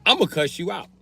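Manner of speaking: loud, high outraged tirade; mock furious cussing. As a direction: cuss them out. Cussing out the borrower.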